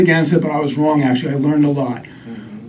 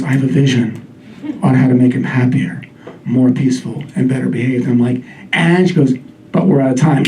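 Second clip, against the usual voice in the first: lower, dreamy psychic voice; medium voice; 5 semitones lower than usual. Retold or imitated. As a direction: read it like a cheesy psychic. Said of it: "finally she says".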